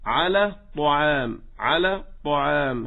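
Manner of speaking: slow طعام with lips rounded on the heavy ط; over-round the lips on the ط of طعام; lip-rounded emphatic. Shown as a demonstration. Teacher imitating others' mistake, lip-rounded emphatic طعام. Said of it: "كما يقول بعضهم".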